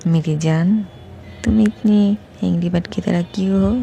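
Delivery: Doctor B teasing angry Cookie, playful and light; jokingly. Acted. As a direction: tease her fondly, half in jest. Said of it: "मजाक करके बोलता है".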